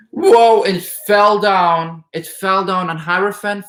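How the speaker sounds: sudden gasp of surprise at the falling card; surprised. Real, not acted. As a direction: caught off guard as a card drops out. Card falls out of deck.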